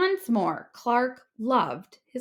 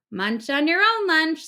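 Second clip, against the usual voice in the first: friend scolding; 7 semitones higher, 5 dB louder than usual. A narrator's reading.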